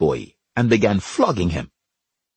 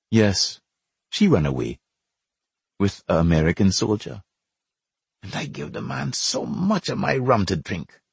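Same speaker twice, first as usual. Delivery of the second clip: sadly. Acted. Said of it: "Edward said sadly".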